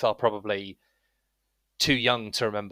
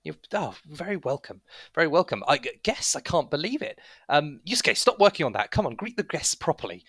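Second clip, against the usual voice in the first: higher-pitched fussing hostess; little woman; 5 semitones higher than usual. Acted. Little woman welcomes guests and chides smith, fussing. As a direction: fuss over guests in a higher voice. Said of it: "a little woman".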